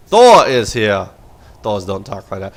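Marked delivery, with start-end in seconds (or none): 0.1-1.1 slow, louder mock robot announcement; first try at a Thor unit voice. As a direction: boom it out slowly like a giant mech. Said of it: "that's how Thors talk".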